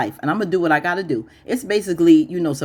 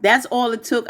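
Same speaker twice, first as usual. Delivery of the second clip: higher disbelieving that's all it took; a raised, unbelieving question; incredulous; 6 semitones higher than usual. Retold or imitated. Host calling out Andy, higher incredulous voice. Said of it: "I'm like".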